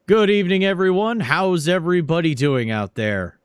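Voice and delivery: loud, high rally greeting from the stage; congressman's speech. Acted. Congressman greets his beach rally crowd, loud and high. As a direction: warm up the crowd like a politician. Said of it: "giving a speech".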